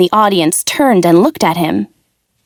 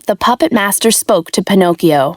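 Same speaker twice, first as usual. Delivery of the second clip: usual speaking voice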